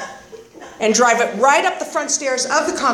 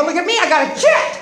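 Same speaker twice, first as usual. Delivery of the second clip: put-on excited kid; 5 semitones higher, faster than usual. Retold proud showing off chip.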